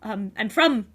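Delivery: a timid stranger overwhelmed by noise; lightly voiced anxious wanderer; shy stammering outsider. Player voices a shy Underdark character.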